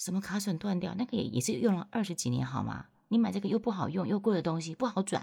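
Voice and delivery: put-on heated, worked-up ranting, loud and high. Retelling how the old man of the house ranted about a broken part, imitating an agitated loud rant. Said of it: "口气很激动的说".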